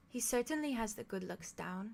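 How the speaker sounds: lightly voiced young girl; a hint of another character's voice; put-on character voice. Game master introduces another voice talking back, lightly voiced character. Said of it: "Let me get this voice right".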